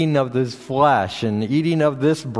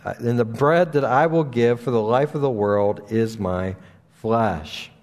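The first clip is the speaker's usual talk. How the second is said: scripture reading. Acted. Pastor reading John to his congregation, solemn and steady. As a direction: read the Gospel passage steadily to the church.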